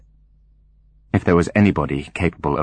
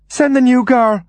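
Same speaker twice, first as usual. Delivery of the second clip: very high, loud command; sharp high demand from the mistress; imperious order; 6 dB louder than usual. Acted. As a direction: order the servant sent in a high voice. Mother orders son about.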